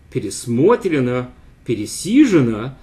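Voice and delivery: пересмотрено, пересижено read out as stress examples; Russian participle examples. Shown as a demonstration. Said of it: "equal B and C".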